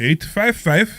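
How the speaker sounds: slow, high breathy sexy voice. Pretend. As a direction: purr it out slowly. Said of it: "do it in the sexy voice like Omri does".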